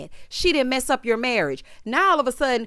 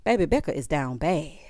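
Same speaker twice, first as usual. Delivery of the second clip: laughing; 6 semitones lower than usual. Real, not acted. Laughing at Becca's situation.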